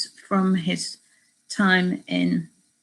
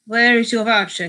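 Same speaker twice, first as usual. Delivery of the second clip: lightly attempted Spanish accent, raised volume; demanding Spanish accent; 4 semitones higher, 6 dB louder than usual. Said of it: "doing a Spanish accent".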